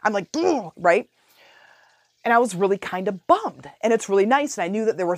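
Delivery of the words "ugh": higher-pitched exasperated "ugh"; frustrated groan. Retold or imitated. Retelling frustration at broken chain.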